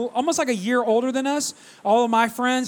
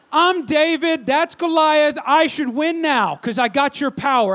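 fervent prayer; slower than usual. Retold or imitated. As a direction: build from solemn appeal to triumphant claim. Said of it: "I secretly prayed in that moment".

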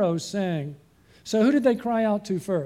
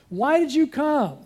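higher, louder, slower accusing outcry; acted angry complaint; 7 semitones higher, 3 dB louder than usual. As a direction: hurl the blame at Moses and Aaron. Foremen angrily blame Moses.

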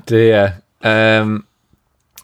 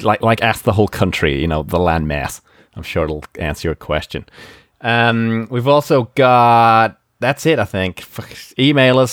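rambling mock presidential American accent; Trump. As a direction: wind down the plug in a spoofed American president's accent. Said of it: "do it in a Trump accent".

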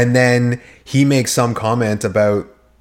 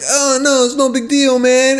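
high, lightly voiced breezy brush-off; breezy Devin; 13 semitones higher than usual. Devin shrugging off Coop's anger, mock casual high voice. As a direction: toss it off like it's nothing, pitched up. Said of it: "He's like".

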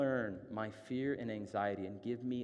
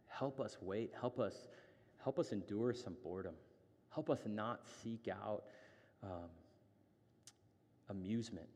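earnest prayer; 2 semitones lower, 3 dB quieter than usual. Real, not acted. Leads the congregation in prayer.

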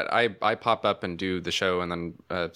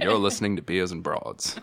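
Morgan Freeman impression. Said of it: "I'll imitate his imitation".

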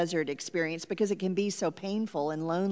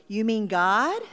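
a touch of hope, rising at the end; hopeful question; 5 dB louder than usual. Retold or imitated. Child asking mother who else to tell, hopeful. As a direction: ask it hopefully, a little louder. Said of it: "with hope in my voice".

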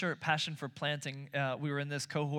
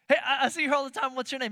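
bright friendly greeting; 9 semitones higher, 7 dB louder, faster than usual. Shown as a demonstration. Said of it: "That's it".

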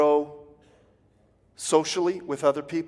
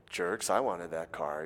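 jealous grumble; 9 semitones lower, 8 dB quieter than usual. Acted.

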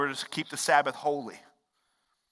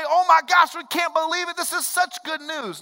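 mock amazement; 9 semitones higher, 3 dB louder than usual. Second imagined joyful reaction.

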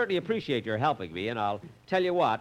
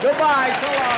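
higher and louder, calling out after him; calling goodbye; 10 semitones higher, 8 dB louder than usual. Acted. Calling goodbye to Mister Kitzel as he leaves, loud. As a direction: shout the farewell down the hall.

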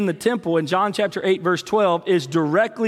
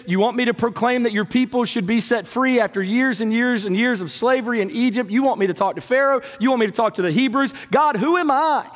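pleading Moses; 3 semitones higher than usual. Acted. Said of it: "Moses looks at God ... and says".

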